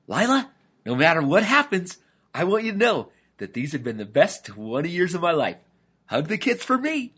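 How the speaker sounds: high-pitched, melodramatic goodbye; bravely hammed-up parting words; brave farewell. A narrator's reading. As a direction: play the hero bidding his wife farewell. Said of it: "with a brave look on his face".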